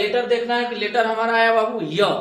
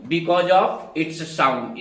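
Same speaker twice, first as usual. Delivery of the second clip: slow emphasis; 4 semitones lower, much slower than usual. Shown as a demonstration. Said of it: "teacher stressing the reason".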